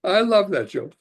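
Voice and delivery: real laugh through the words, pitched high; laughing delight. Real, not acted. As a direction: still giggling at his own punchline. Laughs after telling joke.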